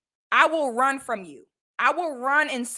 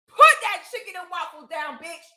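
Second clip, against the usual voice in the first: mock scolding shout; 4 semitones higher than usual. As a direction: bark it like a scolding aunt. Imagined scolding of women eating.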